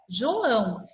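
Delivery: João as two beats, JO and ÃO; separated syllables. Shown as a demonstration. Teacher showing the two strong sounds, syllables separated. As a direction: pull the O away from ÃO in João.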